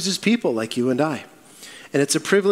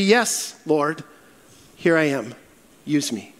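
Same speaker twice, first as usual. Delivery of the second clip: gently falling, settling lower with pauses; humble surrender; 3 semitones lower than usual. Acted. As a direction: offer yourself humbly, easing downward. Modelling a submissive answer to God.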